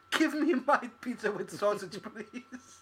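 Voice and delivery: slow, high mock English begging; English orphan. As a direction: drag it out like a pleading English waif. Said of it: "you have an English accent".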